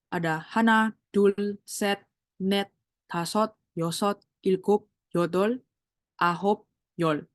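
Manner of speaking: counting Korean native numbers slowly and carefully, one by one; Korean number demo. Shown as a demonstration. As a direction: read hana, dul, set, net as a slow pronunciation model. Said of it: "aku bacain dulu ya". (membaca angka asli Korea pelan-pelan untuk dicontoh)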